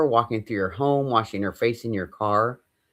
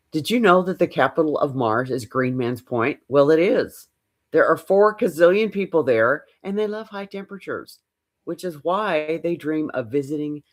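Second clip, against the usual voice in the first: playful, rising nonsense talk; silly example; 5 semitones higher than usual. Shown as a demonstration. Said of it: "Just something silly".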